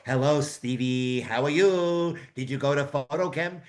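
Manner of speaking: a hint of a doddering old codger; old man voice. Young guy greets coworker as a mock old man. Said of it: "we'd be like these old men".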